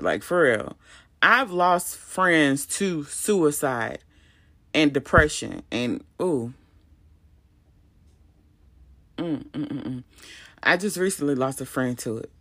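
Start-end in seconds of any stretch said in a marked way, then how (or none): 6.2-10.0 trembling hums holding back tears; shaky breath, fighting tears; shaky sigh. Real, not acted. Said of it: "I'm trying not to cry about it".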